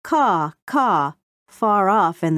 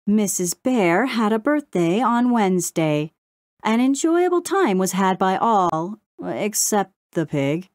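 lilting news recital; sing-song; 3 semitones higher than usual. A narrator's reading. Crow reporting the week's news, sing-song. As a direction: rattle off the news item. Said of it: "in a sing-song voice".

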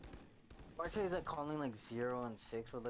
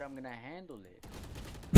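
louder, slow, every word leaned on; insistent repeat; 16 dB louder, much slower than usual. Real, not acted. Insisting to his teammate he will handle it, louder and slow. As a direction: hammer it home, slowly. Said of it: "I said".

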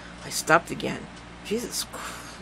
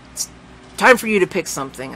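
a bit too loud; 2 semitones higher, 5 dB louder than usual. Acted. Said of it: "a little more loudly than I would have preferred".

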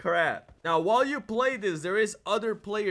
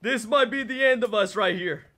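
panicked; 3 semitones higher, 5 dB louder than usual. Real, not acted. Desperate in a zombie fight.

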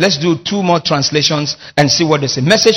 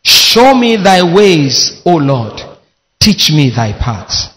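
congregation reading aloud; 3 semitones lower, slower than usual. Real, not acted. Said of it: "Loud and clear".

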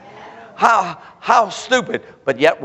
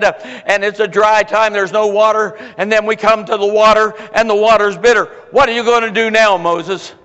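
complaining people; 4 semitones higher than usual. Retold or imitated. Crowd blaming Moses in the wilderness, mild mock complaint. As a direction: mildly act the crowd accusing Moses.

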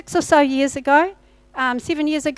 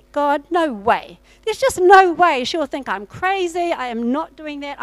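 retold protest; 2 semitones higher, 5 dB louder than usual. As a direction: push back hard at an unwelcome order. Acted protest against God's instruction.

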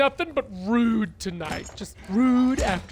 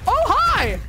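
startled shriek; 11 semitones higher, slower than usual. Real, not acted. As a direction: jump out of your skin. Startled by jump scare.

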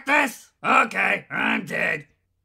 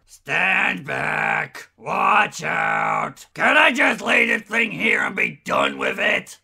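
a much lower, sullen soldier grumbling about everything; grumpy complaining; 4 semitones lower than usual. Acted. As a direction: grumble like you'd rather be at the pub. Grumpy voice bank.

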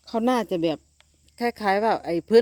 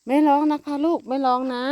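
high, louder sing-song hush; hushing the kittens; 8 semitones higher, 6 dB louder than usual. Real, not acted. Owner hushing mewing kittens, high loud sing-song. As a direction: soothe them like a mother.

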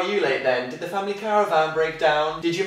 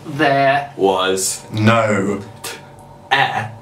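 overacted anime dub; 5 semitones lower, 3 dB louder, much slower than usual. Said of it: "could you do that impression of a Japanese anime character".

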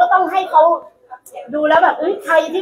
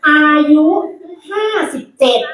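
presenter announcement. Acted. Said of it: "ขอพรีเซนต์คนนี้นิดนึง".

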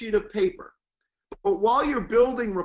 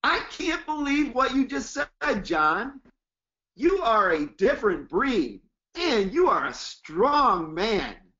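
amped-up praise. Shown as a demonstration. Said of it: "listen to my tonality".

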